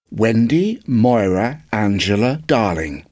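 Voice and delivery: slow, measured, a touch of solemn formality; solemnly. Acted. Wendy telling the boy her full name solemnly. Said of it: "she replied solemnly".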